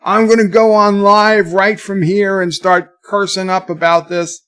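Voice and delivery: mildly heated vow; retold anger. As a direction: announce it in retold indignation. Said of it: "I was so angry".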